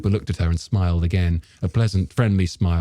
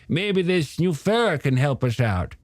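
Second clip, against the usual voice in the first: put-on old shopkeeper character; 9 semitones higher than usual. Storekeeper grumbling to a customer about the beaches, high character voice. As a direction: play a hesitant, opinionated storekeeper, pitched up.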